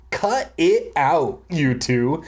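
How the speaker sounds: slow, firm fatherly order; dad shouting at squabbling kids, slow and firm; mild mock shout. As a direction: drag it out like a tired dad. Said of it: "Dad shouted".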